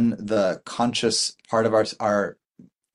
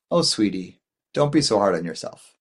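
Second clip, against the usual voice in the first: lower, gentle mom voice, lightly voiced; motherly self-talk; 4 semitones lower than usual. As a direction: soothe yourself like a mother would. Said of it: "it's a little bit my mom".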